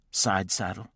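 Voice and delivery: "Side saddle?" with a rising, disbelieving lift; incredulous question. Acted. Wife echoing husband's order, rising in disbelief. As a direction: throw "Side saddle?" back as a shocked question.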